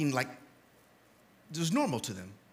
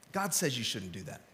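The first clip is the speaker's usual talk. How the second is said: quoted reproach; 7 semitones lower, 10 dB quieter than usual. Retold or imitated. Quoting what Christians say.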